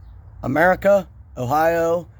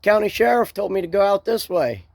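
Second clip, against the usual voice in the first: retold yell out the window; 5 semitones higher than usual. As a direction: call it out lightly, as if through a car window. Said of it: "I yelled out the window".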